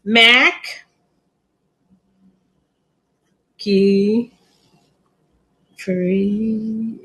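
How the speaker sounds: "Mac. Key. Free." broken into slow separate syllables, dropping low; sounding it out. Shown as a demonstration. Seller sounding out a hard plant name to viewers, syllable by syllable. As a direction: spell out "Mac", "Key", "Free" one by one, slowly. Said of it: "help me pronounce it".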